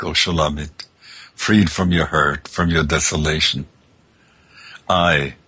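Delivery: a lightly voiced divine lover reassuring her; answering divine lover. Maker answers the forsaken bride.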